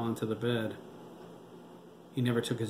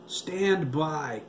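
raised, urgent command; exclaimed order; 5 semitones higher, 4 dB louder than usual. A narrator's reading. Tom halts the target readout, exclaiming urgently. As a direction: call it out higher, drawing it out. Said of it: "Tom exclaimed".

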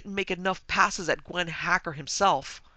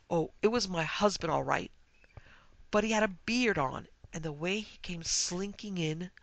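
higher, agitated voice of a distraught guest; tearful account; 3 semitones higher, 3 dB louder than usual. Acted. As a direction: act out an upset, halting confession. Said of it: "Sobs choked off the rest".

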